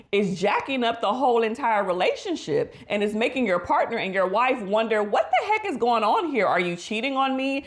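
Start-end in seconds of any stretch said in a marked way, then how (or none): 5.0-7.6 higher-pitched, mildly acted indignant questioning; suspicious questioning. Wife wondering what is going on, mildly indignant. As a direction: voice a wife demanding answers, raised pitch.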